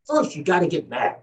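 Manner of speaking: lightly acted agitated TV anchorman; Howard Beale. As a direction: plead with the viewers, then rouse them. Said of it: "playing the part of Howard Beale".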